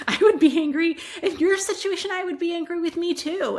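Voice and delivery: animated, loud and high, easing down; emphatic empathy. Retold or imitated. Parent siding with an angry child, emphatic empathy. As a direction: sympathize heartily, with a chuckle at the start.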